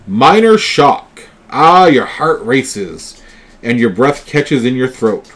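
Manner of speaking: slow, emphatic game master narration; dramatic card reading. Acted. Game master reading out a horror card, dramatic narration. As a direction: draw out the shock for the players.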